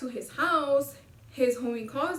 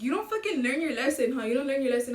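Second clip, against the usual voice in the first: mock lecture, a little raised; acted scolding; 4 dB louder, faster than usual. Homie lectures her for not learning, raised acted scolding. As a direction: imitate a friend telling you off.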